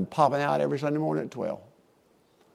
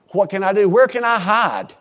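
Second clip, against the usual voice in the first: mock desperate plea; 6 semitones higher, 6 dB louder than usual. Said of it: "what he's saying is".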